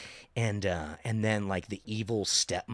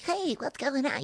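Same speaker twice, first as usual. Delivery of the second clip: high-pitched little elf greeting; Santa's elf. Acted. Actor walking on set as the elf, high elf voice. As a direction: pipe it up high like Santa's helper. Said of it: "like Santa's elf".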